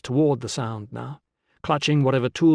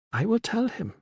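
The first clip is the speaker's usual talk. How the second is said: promise; 10 semitones higher, 3 dB quieter than usual. A narrator's reading. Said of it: "she promised".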